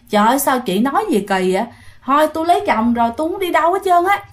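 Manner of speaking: arguing back. Retold or imitated. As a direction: protest quickly, pitch climbing. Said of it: "cô Lệ mới cãi lại". (cãi lại nhanh, giọng cao dần)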